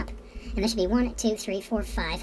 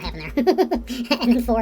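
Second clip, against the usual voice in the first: sheepish laugh through the words; 5 semitones higher, 7 dB louder, much slower than usual. Real, not acted. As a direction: chuckle slowly at your own mistake. Laughs at own building mistake.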